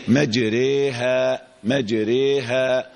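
"مجريها" slow, long e on raa then back to open a on haa; demonstrated imala. Shown as a demonstration. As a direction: switch from tilted e to clear a in "مجريها". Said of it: "بعد ما بتميل الألف بتقول فتحة".

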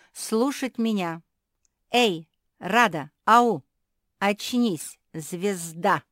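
loud, calling out to Rada; bossy shouting. A narrator's reading. Queen shouts at the singer to wake up, loud. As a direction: demand her attention sharply.

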